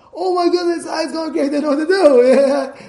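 high, loud panicked cry; panicked shout. Retold or imitated. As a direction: yell it like you're losing your mind. Man panicking over dying horse.

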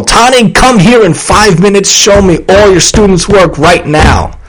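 bossy boss barking an order; mock the pushy manager's shout; bossy demand. Boss ordering a teacher around, bossy shout.

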